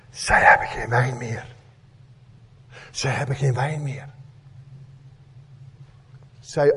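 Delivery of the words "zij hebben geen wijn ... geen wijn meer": soft and low, almost whispered; hushed whisper. Retold or imitated. Preacher voicing Mary whispering to Jesus, softly hushed. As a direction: murmur it close, so no one else hears. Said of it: "fluistert in zijn oor".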